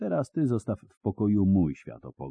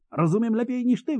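put-on higher, a furious young woman's yell; faster than usual. A narrator's reading. Ciri yelling back at the old hermit, higher. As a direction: shout him down in anger. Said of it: "wrzasnęła".

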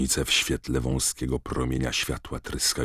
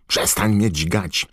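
sleepy protest; 6 semitones higher, 5 dB louder, slower than usual. A narrator's reading. Harry protesting, half-asleep.

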